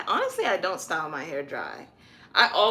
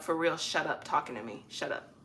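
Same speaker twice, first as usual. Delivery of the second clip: dead serious; 2 semitones lower, 4 dB quieter than usual. Shown as a demonstration. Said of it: "Shut up like".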